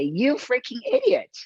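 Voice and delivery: mock furious car scolding its driver; angry car voice. The neglected car scolds its careless driver, mock angry. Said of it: "my car will look at me and say".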